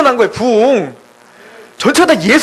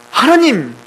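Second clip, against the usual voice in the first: whining mock complaint to heaven; acted irritation; 3 semitones higher than usual. Jonah complaining to God about the lost shade, irritated. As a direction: protest with repeated, exasperated whys. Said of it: "막 짜증을 내기 시작한".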